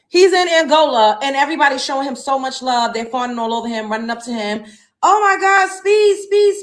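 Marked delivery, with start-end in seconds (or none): 5.0-6.6 higher, squealing fan call; mock excited fan. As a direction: play the star-struck fan calling his name. Fans fawning over Speed.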